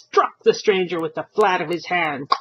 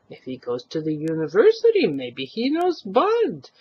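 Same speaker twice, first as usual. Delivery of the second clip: suggesting wife. Acted. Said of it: "his wife suggested".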